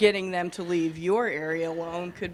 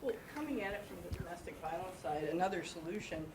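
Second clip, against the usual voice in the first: sore throat; 13 dB quieter, faster than usual. Real, not acted. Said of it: "sorry about my throat".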